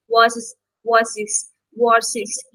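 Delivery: slow, repeated "Wars is" with the s sliding into "is"; "Wars is" blended like one word, drawn out for learners; linked words. Shown as a demonstration. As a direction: run "Wars" into "is" without a gap. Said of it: "is mixing with E's".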